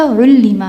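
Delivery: "علمہ" said ullima, with u then i; past passive vowels. Shown as a demonstration. Teacher shows students the past passive, "علمہ" as ullima. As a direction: give "علمہ" the sounds u-i: ullima. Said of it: "او ای sound آتی ہے،".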